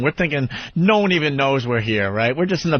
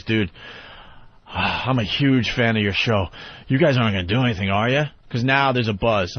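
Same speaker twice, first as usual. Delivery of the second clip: hushed security guy; 3 semitones lower than usual. Retold or imitated. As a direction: lean in and ask nervously. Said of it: "He goes".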